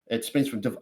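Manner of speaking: flat monotone robot read. Real, not acted. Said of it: "I sounded like a robot there".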